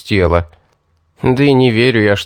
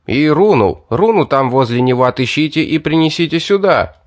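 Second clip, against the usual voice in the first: raised, higher shout after running men; shouting after them; 4 semitones higher than usual. Acted. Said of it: "крикнул им вдогонку".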